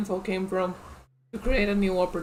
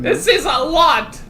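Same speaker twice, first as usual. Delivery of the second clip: laughing; 5 semitones higher, 6 dB louder than usual. Real, not acted. Overwhelmed by reading.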